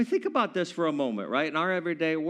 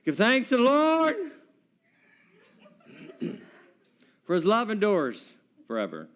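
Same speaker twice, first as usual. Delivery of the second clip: timid first try; 5 semitones higher than usual. Retold or imitated. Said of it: "the first couple of times it was kinda like".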